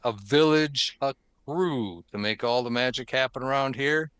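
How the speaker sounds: scripted announcer read, punchy openings to phrases; podcast host intro. Acted. Host opens the Forums edition for listeners, announcer intro. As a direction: welcome listeners in like a show host.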